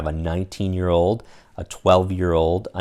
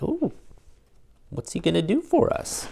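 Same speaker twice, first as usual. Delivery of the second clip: awed ooh; 10 semitones higher than usual. Acted. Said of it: "are kinda like".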